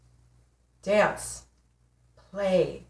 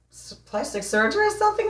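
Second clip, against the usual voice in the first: mock surprise; 10 semitones higher, faster than usual. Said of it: "And I said".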